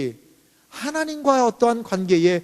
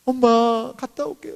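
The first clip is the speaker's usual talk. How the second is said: sweet goodbye; 3 semitones higher, 4 dB louder, slower than usual. Acted. Loving daughter saying goodbye to mom.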